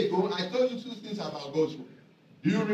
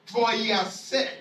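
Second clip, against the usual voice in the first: emphatic; 5 dB louder than usual. Shown as a demonstration. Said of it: "It's not just saying it".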